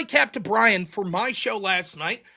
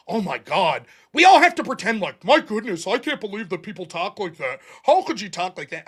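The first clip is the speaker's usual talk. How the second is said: mock prudish outrage; 4 semitones lower than usual. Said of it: "the idea that".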